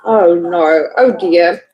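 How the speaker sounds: low, sympathetic dismay. Real, not acted. Teacher hearing a student's traffic jam story, sympathetic.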